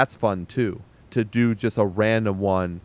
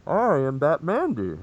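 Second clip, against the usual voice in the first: slow mock superhero voice, a bit higher; Batman voice; 5 semitones higher than usual. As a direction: ham up the caped hero's line, slowly. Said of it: "I think I nailed it too".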